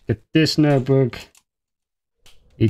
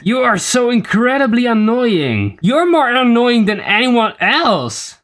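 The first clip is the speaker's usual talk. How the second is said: high, slow squeaky complaint; squeaky falsetto mockery; 8 semitones higher, slower than usual. Squeaky mock argument with himself.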